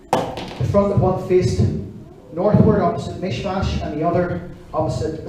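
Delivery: measured, deliberate Bible reading; scripture reading. Acted. Preacher reading the Bible passage to the congregation, measured.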